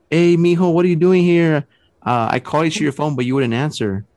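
lightly voiced mother calling out to her son; mom's voice. Mom appears, asks about phone.

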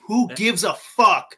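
slow, drawn-out contempt; dismissive scoff. Retold or imitated. Mocking celebrity gossip fans, slow and scornful. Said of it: "You're like".

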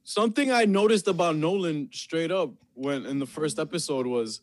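talking through a mouthful of pizza; words round a bite of food; chewing while talking. Real, not acted. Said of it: "I'm also eating pizza while I'm doing it".

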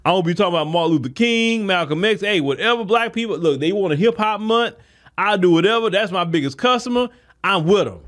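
lightly voiced store owner, easygoing and eager to please; imagined store owner. Commentator imagining what Asian store owners should say. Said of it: "You would think they would be like".

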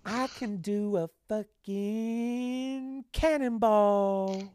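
high, drawn-out silly voice; hammed-up, very slow boast; mock clueless gamer. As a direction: stretch every word in a high pitch. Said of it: "and I'm just like".

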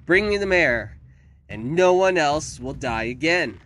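high, loud, drawn-out screechy demands; screeching villainess. A narrator's reading. Victoria gives the town an ultimatum, screeching. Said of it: "Victoria screeched and hacked".

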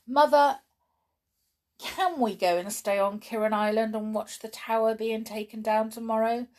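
put-on high, eager child's plea to mother; begging. A narrator's reading. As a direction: call out, then coax hopefully. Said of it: "begged George".

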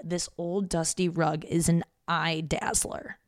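quoting dad. Retold or imitated. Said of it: "My dad literally said".

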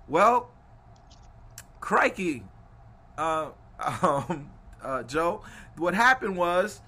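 hesitant reply in a mock New Zealand accent; stall, then explain, as a New Zealander; put-on New Zealand accent, halting; New Zealand accent. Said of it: "Anytime I do my New Zealand accent".

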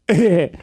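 little mock baby laugh; imitated baby giggle. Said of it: "she does a little baby".

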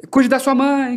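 a hint of a solemn mentor's voice; mild Dungeon Master style. Grandmother's spirit gives a solemn parting message, lightly mentor-like. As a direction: say it like a wise guide giving a message. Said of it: "meio mestre dos magos".

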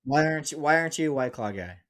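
loud, high disbelief; can't believe what he heard; incredulous. Real, not acted. Friend refuses White Claw.

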